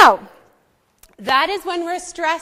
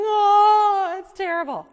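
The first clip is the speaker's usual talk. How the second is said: mild mock weeping; 3 semitones higher than usual. Shown as a demonstration. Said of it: "sounds like you're going".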